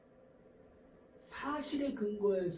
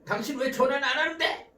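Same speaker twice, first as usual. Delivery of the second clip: raised accusing question; acted attack; 4 semitones higher, 3 dB louder than usual. Spouse demanding why partner never phones, mildly aggressive. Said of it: "이렇게 공격적인 언어가 오가는 거죠".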